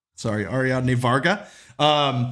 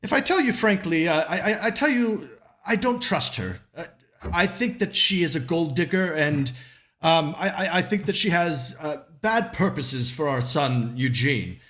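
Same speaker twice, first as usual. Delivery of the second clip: nervous wife; 3 semitones higher than usual. Acted. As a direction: confess distrust in a fretful rush. Worried wife accuses the socialite.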